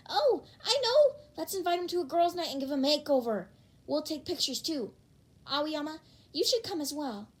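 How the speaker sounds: high, bubbly burst of ideas; excited girl. Acted. Toru planning a girls' night makeover, excited. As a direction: gush with a sudden plan.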